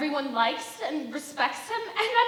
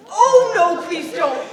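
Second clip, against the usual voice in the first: flustered laugh; 4 semitones higher, 14 dB louder, slower than usual. Acted. Flustered by his approach.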